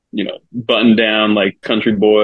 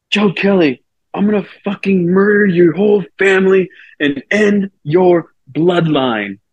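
high, drawn-out imitation of a yelling heckler; mock a fan's threatening yell, pitched up; retold heckler yell; 8 semitones higher than usual. Heckler threatening the pitcher from the stands, mock yelling. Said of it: "the guy was yelling at me".

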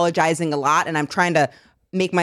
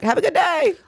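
sweetly polite; 10 semitones higher than usual. Retold or imitated. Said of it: "I would have been like".

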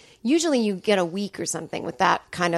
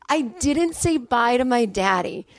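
slow, higher, mournful retelling; imitating grieving dad; 4 semitones higher than usual. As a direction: echo dad's lament slowly. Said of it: "And he goes".

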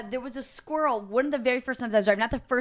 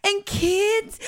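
crying; 10 semitones higher than usual. Retold or imitated. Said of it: "I started crying".

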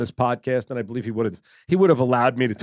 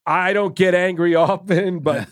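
mock threat; 3 semitones higher than usual. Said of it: "basically threatening me".

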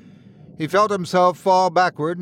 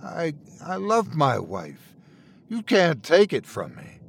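tearful; 2 semitones higher, 3 dB quieter than usual. Acted. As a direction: hold back the tears. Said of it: "felt a tear roll down his cheek".

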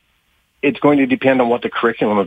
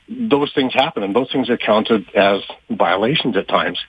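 slightly winded, short of air; out of breath. Real, not acted. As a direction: speak a bit breathless, catching air. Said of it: "out of breath".

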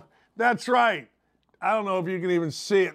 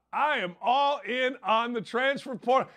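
ordinary delivery

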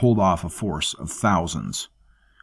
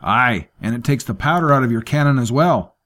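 a hint of a dry old sailor's joke; dry Snake Eye, joking; 5 semitones higher, 5 dB louder than usual. Snake Eye chimes in with a lightly voiced dry joke.

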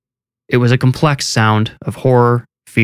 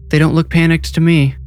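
higher, pointed comeback; defiant; 8 semitones higher than usual. A narrator's reading. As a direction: stand up to the chief without backing down. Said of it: "Rose spoke defiantly".

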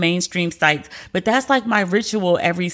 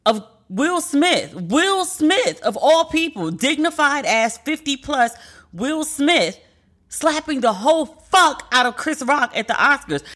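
excited disbelief; 5 semitones higher than usual. Real, not acted. Disbelief retelling the slap.

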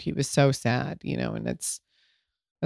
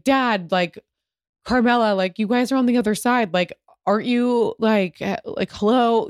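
1 exasperated plea; 6 semitones higher than usual. Retold or imitated. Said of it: "I was like".

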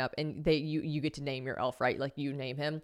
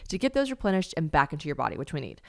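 bright upbeat sponsor read, pushing the product; 4 semitones higher, 7 dB louder than usual. Acted. Host reading a sponsor spot to listeners, upbeat ad voice. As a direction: sell it like a podcast ad.

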